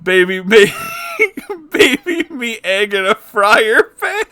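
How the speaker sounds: singing through giggles; can barely get the words out for laughing. Real, not acted. Reading the silly song while cracking up.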